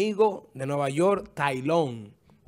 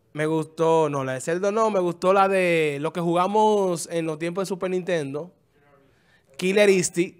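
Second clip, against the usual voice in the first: ordinary talk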